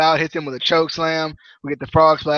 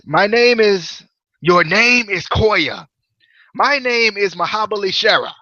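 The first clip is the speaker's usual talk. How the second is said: higher, emphatic mock Indian accent; Mahabali Shera; 4 semitones higher, slower than usual. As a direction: imitate a proud wrestler in bad Indian accent. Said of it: "quit with this terrible accent".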